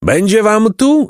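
high, slow, gleeful monster gloating; laughing taunt. A narrator's reading. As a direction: draw it out high, with amused mockery. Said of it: "zaśmiał się". (wysoko, przeciągle, ze śmiechem w głosie)

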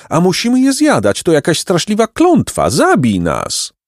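high-pitched, wailing complaint; pelican lament. A narrator's reading. Pelicans begging Jacek to kill them, wailing. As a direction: lament your helplessness in a high bird voice. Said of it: "Pelikany rozpoczęły lament i srogi krzyk".

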